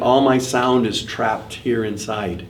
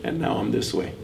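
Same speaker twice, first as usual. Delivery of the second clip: a lightly hoarse, softer voice; hoarse open-nose voice; 9 dB quieter than usual. Shown as a demonstration. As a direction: let the sound go tired and breathy through the nose. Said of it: "Hear how it gets hoarse?".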